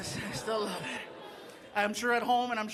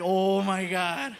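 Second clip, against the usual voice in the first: stunned; 3 semitones lower, 3 dB louder, much slower than usual. Retold or imitated. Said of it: "And I was like".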